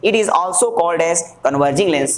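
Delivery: measured, word-by-word statement; slow dictation. Shown as a demonstration. Teacher giving students the lens's other name, slow dictation. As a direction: state the term slowly for the class.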